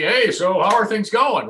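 awkward dad. Retold or imitated. Father imagining himself intruding on his son's date, awkward. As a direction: butt into the date like a nosy dad.

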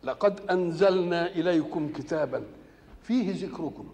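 slow, measured chanting of the verse; solemn tajweed-style recitation; Quran recitation. Acted. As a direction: recite it with reverent, drawn-out care.

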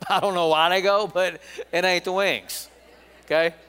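chuckling through the words; laughing. Real, not acted. Pastor laughs at his own joke about Hooters wings, chuckling. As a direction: let real laughter break into the line.

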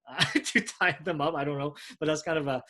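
a real chuckle through the words; laughing. Real, not acted. Preacher laughing at his own joke, laughing. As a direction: laugh it out at the silly thought.

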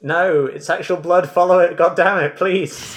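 high, loud exasperated plea. Real, not acted. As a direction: beg them to just follow it. GM pleads players follow trail.

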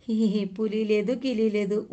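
lightly voiced prankster with a spoken "hee hee"; a touch of gleeful teasing; teasing boy. A narrator's reading. Boy owns up to his prank to father and labourers, lightly teasing.

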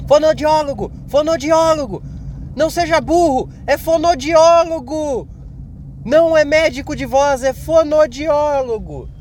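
high, exasperated mock shouting; imagined listener yelling. Imagined listener correcting the podcast host, high mock yelling. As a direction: yell the correction like a frustrated listener. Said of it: "gritando do outro lado aí".

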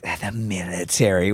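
low, slow mock disbelief; scoffing mom. Mom hearing her son's military plan, scoffing. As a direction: draw out the word military doubtfully.

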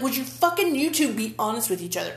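half-joking rant at the TV characters; mock yelling at the TV. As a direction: tell them off through the screen. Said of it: "kinda yelling at the T V".

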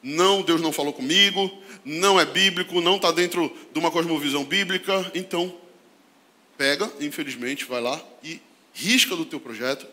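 ordinary talk, nothing marked

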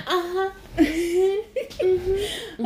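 high, giggly lovestruck hums; smitten listener. Retold or imitated. Woman charmed by the Irish accent, giggling dreamily. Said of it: "You're like".

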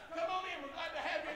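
high, soft greeting; small high voice of welcome; mock friendly welcome. Welcoming newcomers between screams.

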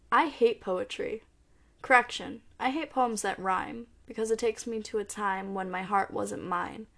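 steady, measured poem recital; spoken-word poem reading. Acted. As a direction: read each apology as a line of verse. Reads poem Seven Letters.

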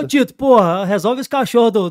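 loud mock call to the lawyer; joking shout. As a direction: yell it out playfully. Calling out to the lawyer.

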